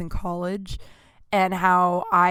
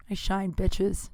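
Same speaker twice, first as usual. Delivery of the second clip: mock sassy; 4 dB quieter, slower than usual. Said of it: "Just kidding".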